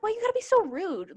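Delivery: high-pitched plaintive complaint; imitating an exasperated plea to rude customers; mock protest. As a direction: whine it up high, half in play. Acted reaction to rude customers.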